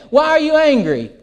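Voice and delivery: high-pitched, pressing question in a quarrel; mock accusing question. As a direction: press a partner for an explanation. Acted couple's quarrel, question repeated.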